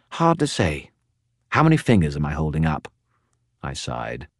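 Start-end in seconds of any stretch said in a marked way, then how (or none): 0.1-2.9 a talkative skull spirit, pitched up; Bob the skull. Acted. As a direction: prattle on like a gossipy spirit. Bob jokes.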